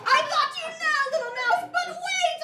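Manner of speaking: loud, very high theatrical lion; lion pouncing. Acted. Lion catching the little mouse, loud hammy voice. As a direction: cry out in triumph as the puppet lion. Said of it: "The lion is just trying".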